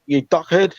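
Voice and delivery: "duckhead" for dickhead, short uh; blunt Kiwi vowel. Shown as a demonstration. Comedian showing the Kiwi way, blunt "duckhead" for dickhead. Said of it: "blunt, like".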